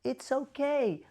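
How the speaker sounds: demonstrated caregiver reassurance; calm, soothing. Shown as a demonstration. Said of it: "calm, soothing voice".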